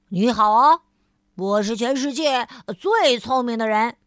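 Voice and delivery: 大声骄傲地打招呼; 得意洋洋地大喊自我介绍; 喊着打招呼. Acted. 聪明先生喊道 third time. (聪明先生第三次向路人高声夸口)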